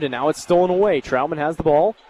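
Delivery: normal talking voice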